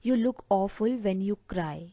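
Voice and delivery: very slow and deliberate, word by word; slow dictation. Shown as a demonstration. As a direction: dictate the phrase slowly to the class. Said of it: "तो आप इसे English में बोलेंगे".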